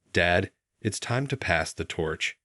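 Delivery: slow, gentle apology; apologetic. Acted. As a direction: ease the news out slowly, sorry for it. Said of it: "his voice carried an apologetic note".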